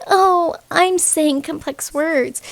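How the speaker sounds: high, slow, hammed-up airs; mockingly self-important, drawn out; mock grandiosity. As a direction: put on a high, pretentious voice. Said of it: "She's not being like".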